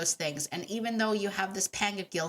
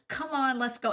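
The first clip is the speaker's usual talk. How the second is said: forced cheer; 6 semitones higher than usual. Retold or imitated. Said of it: "it took everything in my power".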